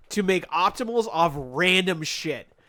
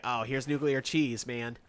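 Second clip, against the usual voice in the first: Spooky impression; 4 semitones lower than usual. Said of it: "Spooky would be like".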